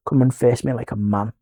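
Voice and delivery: low, soft challenge; controlled challenge. Retold or imitated. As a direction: issue the dare low and restrained. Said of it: "and I said, "Right".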